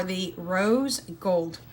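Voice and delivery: "rose gold" slow and deliberate, words held apart; really slowly. Real, not acted. Mother showing viewers the lids, "rose gold" said really slowly. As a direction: draw out "rose gold" carefully, word by word. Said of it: "I have to say it really slowly".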